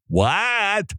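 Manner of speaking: high-pitched, drawn-out disbelief; incredulous. Acted. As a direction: blurt a stretched, stunned question. Incredulous reaction to remedial college math.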